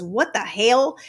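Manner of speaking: "hell" said like "hail"; granddaughter's "hell", said as "hail"; Southern-style hell. Retold or imitated. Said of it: "we spell it H A E L".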